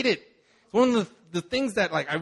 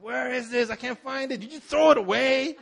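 high-pitched frantic retold demand; frantic accusing; 7 semitones higher than usual. Husband searching the house accuses his wife, frantic. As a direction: act out a panicked hunt for something lost.

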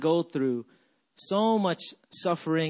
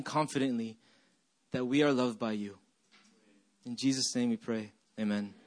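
lower, hushed and steady praying; prayer; 3 semitones lower than usual. Real, not acted. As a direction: pray gently with measured pauses. Leads a prayer.

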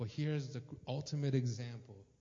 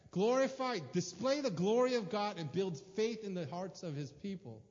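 preaching emphasis; 4 semitones higher, 5 dB louder than usual. Real, not acted.

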